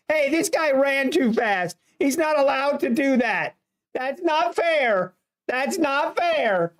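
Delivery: a lightly voiced whiny player, slowing on the last words; mock crybaby player. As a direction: whine that it isn't fair. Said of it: "he's like".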